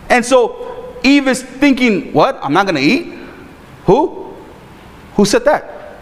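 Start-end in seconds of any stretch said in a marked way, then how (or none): 2.1-6.0 mock panic. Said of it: "she's already freaking out".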